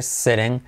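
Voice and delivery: "sitting" with the T tapped like a Spanish R. Shown as a demonstration. Teacher showing Spanish speakers the sound, "sitting" with tapped T. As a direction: say "sitting" as "sereng", tapped T and open I. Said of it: "T como R".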